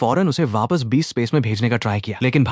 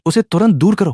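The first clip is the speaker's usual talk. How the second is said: indignant demand; 7 semitones higher, 4 dB louder than usual. A narrator's reading. Alarmed beasts clamour in his head.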